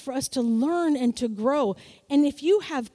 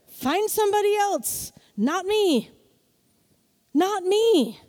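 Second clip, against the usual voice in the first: confident brush-off; 3 semitones higher than usual. Pretend. Preacher telling the devil to find somebody else, defiant. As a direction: shut the door on him with pride.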